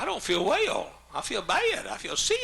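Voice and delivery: high, loud mock southern twang; hammed-up southern complaint; exaggerated southern accent. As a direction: split "well", "bad" and "sick" into two southern syllables. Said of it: "kidding her about her southern accent".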